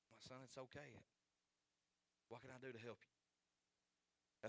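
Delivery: soft, gentle fatherly reply; reassuring father. Retold or imitated. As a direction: quietly reassure a sorry son, as retold. Father reassures apologetic son in retelling.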